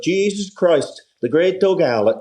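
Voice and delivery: put-on high, thrilled old Irish manager; excited old bloke. Old manager gushing about Doug Howlett, high and thrilled. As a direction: gush over the star player. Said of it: "the old bloke was like".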